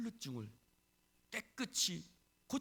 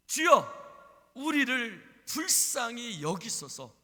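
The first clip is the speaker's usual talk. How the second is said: slow, loud, drawn-out plea; crying out; 8 semitones higher, 12 dB louder, much slower than usual. Acted. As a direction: wail it out to be heard. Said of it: "예수를 향해서 부르짖습니다". (길게 늘여 부르짖는 소리)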